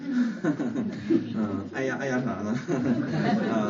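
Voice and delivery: real chuckle running through the words; amused, laughing as you talk. Real, not acted. Chuckling with the congregation.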